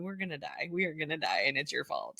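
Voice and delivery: husband mock-muttering in fear; fearful mutter. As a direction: murmur it under your breath in dread.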